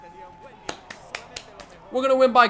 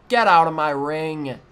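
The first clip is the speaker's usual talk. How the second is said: forceful order; 2 semitones lower, 4 dB louder than usual. Acted. Player ordering opponent out of the ring, forceful. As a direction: push the first words out hard, then fall.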